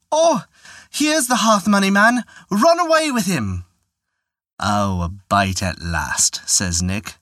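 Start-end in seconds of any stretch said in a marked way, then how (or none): 0.1-3.6 bawling woman. Acted. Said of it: "bawled out". 4.6-6.4 put-on slow, low old devil voice; old prospector. The Devil sees his prize.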